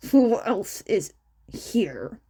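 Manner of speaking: slow whispered threat; menacing whisper. Acted. Bakugo after slamming door.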